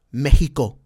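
Mexico said the Spanish way, "MEH-hee-ko"; Spanish twang. Shown as a demonstration. El Paso local showing he lives next to Mexico, Spanish twang. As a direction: switch into a Spanish accent for Mexico. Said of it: "a little bit of that Spanish twang".

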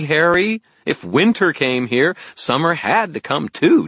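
high, loud, drawn-out fairy voice; condescending fairy. Acted. Fairy explains the obvious to wizard, slow condescension. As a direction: stretch it as if to someone slow.

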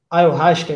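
tentative "ayahuasca", the second A swallowed; unsure pronunciation. Real, not acted. Host checking with his guest how it's said, unsure pronunciation. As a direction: say "ayahuasca" missing its middle A. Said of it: "é assim que pronuncia?".

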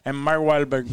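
hammed-up Hispanic accent with a laugh behind it; poor Hispanic accent. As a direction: repeat it in a deliberately bad Hispanic accent, amused. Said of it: "How do you do that accent so poorly".

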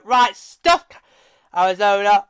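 lightly voiced brusque official brushing them off; mock dismissive. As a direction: toss it out like a callous boss. Voices dismissive league bosses' decision.

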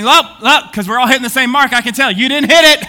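gloating jeer through a laugh; laughing mockery. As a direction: rub it in with a laugh. Mocking rivals over the target.

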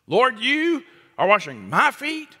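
"Lord, you are washing my feet?" high, rising and disbelieving; incredulous question. Retold or imitated. Peter asking Jesus in disbelief, high rising question. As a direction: Peter can't believe it. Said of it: "Peter says to him".

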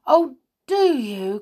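high, loud and slow with delight; delighted cry. Acted. Molly thrilled the mouse knows a way in, delighted cry. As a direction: burst out with sudden hope. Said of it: "cried Molly in delight".

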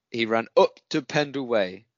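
put-on a light stab at a northern English accent. Mimicking a friend's run in a half-hearted northern accent. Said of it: "that was me trying to do a northern accent".

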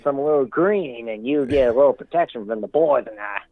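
put-on a weak, half-hearted Italian mobster accent that slips toward redneck; hammed-up Italian gangster accent, barely held; poor Italian accent. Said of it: "sorry for my poor attempt at an Italian accent".

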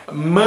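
ma stretched out through the nose; nasal A. Shown as a demonstration. Teacher demonstrating a nasal sound, drawn out. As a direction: hold the nasal vowel of ma. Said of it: "es un sonido nasal".

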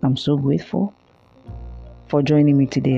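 tired hoarse voice at 2 AM; worn-out hoarse voice after a long talk. Real, not acted. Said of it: "forgive me for my hoarse voice".

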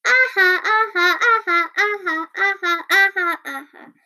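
high, loud ah ha that fades away; laughing. A narrator's reading. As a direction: keep laughing and trail off. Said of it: "all the other animals".

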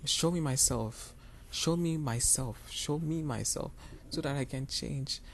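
slow, tender plea repeated; slow earnest prayer. Retold or imitated. Retold prayer, slow and raised.

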